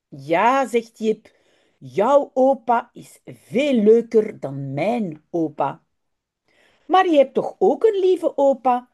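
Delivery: slow, carefully articulated Dutch storytelling; storybook narration with stretched-out key words; children's story reading. A narrator's reading. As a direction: read it to language learners, unhurried, with lively character lines. Reads a children's story aloud.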